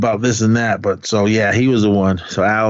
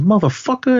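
retold curse; 11 semitones higher than usual. Retold prison cafeteria quarrel.

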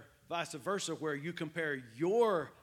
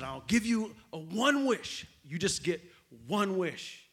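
a lightly voiced genie, slower and a bit louder; big genie voice; 4 dB louder than usual. Genie offering the farmer one wish, lightly voiced grandly. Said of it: "he said".

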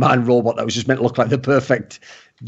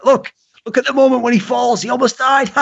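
mocking high voice; 9 semitones higher than usual.

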